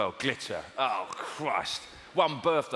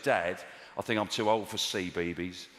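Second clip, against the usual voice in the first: exaggerated daughter; 7 semitones lower than usual. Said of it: "she doesn't talk like that".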